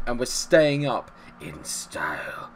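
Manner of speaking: slow, gleeful whisper. Real, not acted. Savouring survival to viewers in a slow whisper. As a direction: breathe it out like a secret. Gloating after six nil.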